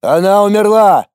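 angry shout. A narrator's reading. Garlin shouting at Lorana in anger. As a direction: hurl it at her in anger. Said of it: "зло выкрикнул Гарлин".

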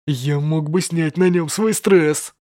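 slow gloating thug voice; slow menacing thug. Acted. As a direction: relish the violence slowly. Thug relishes beating. (медленный злорадный бандит)

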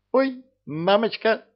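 very high startled little squeak; frightened squeak. A narrator's reading. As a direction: squeal as you're knocked aside. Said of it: "пискнула Роксана".

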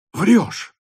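sharp, high, loud outburst; disbelieving exclamation. Acted. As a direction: throw it back in loud disbelief. Officer disbelieves the news. (недоверчивый высокий выкрик)

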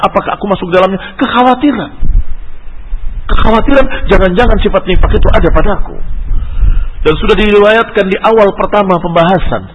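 preacher driving the point home; emphatic preaching. Acted. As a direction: press the warning on the congregation. Preaches to congregation.

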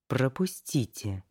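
slow hiss through clenched teeth. Acted. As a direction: hiss it, jaw locked. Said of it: "прошипела сквозь зубы".

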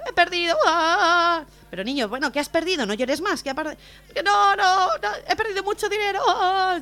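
put-on crying child. Little boy telling the man he lost money, high wailing. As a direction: blurt it between sobs like a kid.

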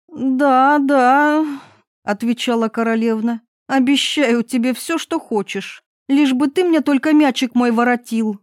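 a touch of brushing-off impatience; impatient princess. Acted. Princess hastily promising the frog.

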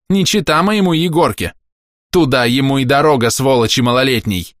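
high, loud spiteful woman; shrill village woman cursing the boy; shrill insult. A narrator's reading. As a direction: spit the insult at the mother.

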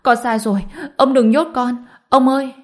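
building from a plea to a high, loud wail; wailing cry. A narrator's reading. Grandson begs grandfather not to jail him, rising wail. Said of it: "gào lên".

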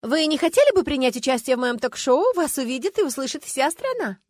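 громко и выше, зазывая; крикни вслед даме; зазывно громко. Acted. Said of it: "с воплем". (громкий зазыв)

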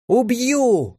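a high mock yell of rage; scream. A narrator's reading. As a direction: threaten her at the top of the voice. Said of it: "завопила темноглазая". (высокий вопль)

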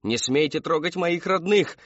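slow, high-pitched warning; defiant cry. A narrator's reading. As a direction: cry out to protect your family. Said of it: "вскрикнула мать".

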